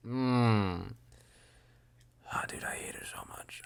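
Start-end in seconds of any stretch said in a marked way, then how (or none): 2.3-3.6 whispered frustration; whispering. Real, not acted. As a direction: whisper it in annoyance. Whispered complaint.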